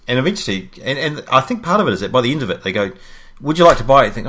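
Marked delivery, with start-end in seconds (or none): 3.4-4.1 higher, louder scripted offer; a sing-song upsell, lightly hammed; mock salesperson. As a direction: customer retelling the agent's chirpy offer. Retold agent's final offer.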